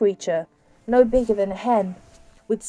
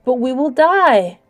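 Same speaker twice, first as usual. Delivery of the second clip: high, loud and slow despairing cry; a girl crying out in despair to the creature; desperate cry; 4 semitones higher, 7 dB louder, slower than usual. Acted. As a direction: plead for their lives. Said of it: "cried Derna".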